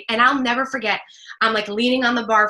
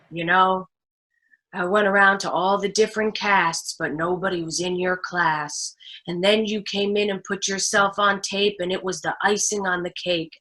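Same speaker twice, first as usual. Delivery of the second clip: put-on low, measured older man's voice; lightly imitated film star, pitched down; Clint Eastwood; 4 semitones lower than usual. Director praising the actress's audition tape, low and measured. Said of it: "Clint Eastwood comes up to me and he goes".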